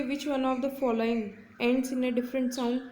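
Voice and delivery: slow, careful reading of an exam question; deliberate classroom read-aloud. Shown as a demonstration. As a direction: read each word clearly for students. Teacher reads exam question aloud.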